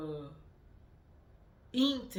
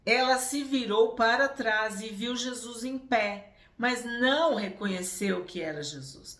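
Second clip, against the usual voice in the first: firm scripture reading; 4 semitones higher, 7 dB louder than usual. Acted. Preacher reading the Gospel aloud to the congregation, firm and full. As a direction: read it out strong and full. Reads verse, then repeats it.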